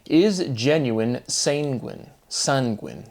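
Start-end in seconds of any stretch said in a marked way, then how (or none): 1.3-2.1 "sanguine" with first syllable like "sane"; word-form play. Shown as a demonstration. Speaker toying with word forms, "sanguine" said as SANE-gwin. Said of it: "emphasizing the word forms". 2.3-3.1 "Sanguine" with first syllable like "sun"; word-form play. Shown as a demonstration. Speaker toying with word forms, "Sanguine" said as SUN-gwin. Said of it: "emphasizing the word forms".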